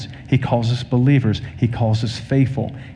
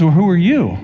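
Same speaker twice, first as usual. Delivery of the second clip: retold insistent question, pitched higher; pressing; 4 semitones higher than usual. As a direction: press the man for a real answer. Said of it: "he just was pressing in".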